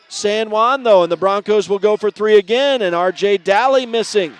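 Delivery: energetic basketball commentary; live play-by-play. Real, not acted. Radio announcer calling a first-quarter game, live play-by-play. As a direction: call the action as it unfolds.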